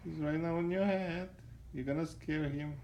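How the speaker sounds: hushed so the bird stays calm; quiet. Real, not acted. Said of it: "Don't, don't move".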